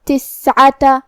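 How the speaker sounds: تسعة with the س drawn out as an airy hiss; hams on seen. Shown as a demonstration. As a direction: let breath flow through the s in تسعة. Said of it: "ہمیں یہ حرف کو ایسے پڑھنا ہے".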